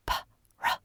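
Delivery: usual speaking voice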